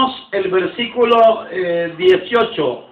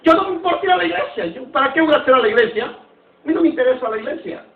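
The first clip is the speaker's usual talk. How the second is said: mocking careless doubter; 3 semitones higher than usual. Preacher imitating people who shrug off church, fast and scoffing. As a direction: rattle it off like someone who couldn't care less. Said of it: "dicen algunos".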